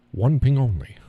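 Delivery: hammed-up Scottish accent as the captain; Scottish sub commander. Quoting the movie captain to viewers, Scottish accent. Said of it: "Russian sub commander with a Scottish accent".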